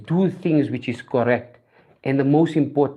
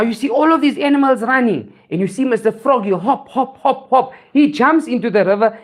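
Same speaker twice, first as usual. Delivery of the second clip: higher, lively story narration; animated storytelling; 7 semitones higher than usual. A narrator's reading. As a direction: tell it brightly to a crowd, pitched up.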